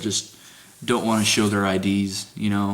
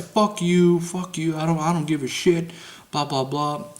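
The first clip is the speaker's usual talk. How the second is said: mock angry lady; 7 semitones higher than usual. Imitating angry lady resident.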